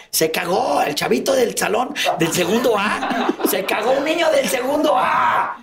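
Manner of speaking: gritando la burla entre carcajadas, cada vez más agudo; burla entre risas. Retold or imitated. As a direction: imita a los niños burlándose a gritos, riendo. Burla a gritos de compañeros. (burla gritada entre risas)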